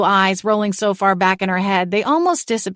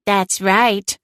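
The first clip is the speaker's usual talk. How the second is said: exclaimed; 3 semitones higher than usual. A narrator's reading. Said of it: "Celine exclaimed past me".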